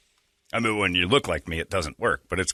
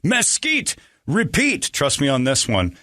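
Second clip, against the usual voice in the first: ad read; 3 semitones higher than usual. Acted. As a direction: sell the barbecue like a radio ad. Host reads sponsor ad.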